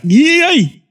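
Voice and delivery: high, bright-eyed little yay; mock cheer. Young creator cheering the next big idea, mock excited yay. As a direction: squeal it like a kid who can't wait. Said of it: "It's like, you're so excited for the next idea".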